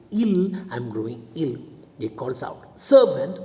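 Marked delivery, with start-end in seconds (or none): 2.8-3.4 calling out for the servant, much louder and higher; a master's loud shout for his servant. Acted. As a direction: bellow for the servant across the house. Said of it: "Then loudly he shouts".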